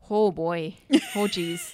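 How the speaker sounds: put-on folksy American accent, jumping up on jeez; American regional accent. Cop reacting to triple homicide, folksy American accent. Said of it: "keep going with that accent".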